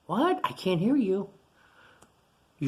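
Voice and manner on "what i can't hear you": mock can't hear. Teacher pretends she cannot hear.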